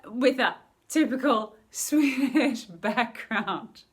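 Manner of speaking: laughing partway through the phrase; slow, drawn-out words broken by a real laugh; amused. Real, not acted. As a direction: let a laugh bubble up mid-phrase. Amused at own name-and-background tip.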